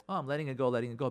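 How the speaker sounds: low, falsely casual brush-off; passive-aggressive. Acted. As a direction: pretend to let it go, voice dropped. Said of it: "these are passive-aggressive behaviors".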